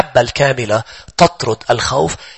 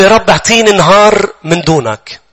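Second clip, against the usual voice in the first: pleading man; 5 semitones higher than usual. Acted. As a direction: beg the Lord for just one day. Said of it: "قال له".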